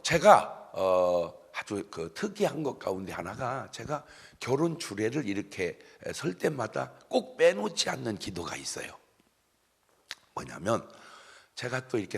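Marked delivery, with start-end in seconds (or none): none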